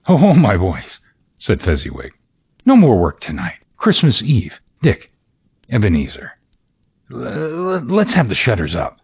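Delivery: loud, high, jolly call; rally the boys with cheer; jolly shout. Acted. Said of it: "cried Fezziwig".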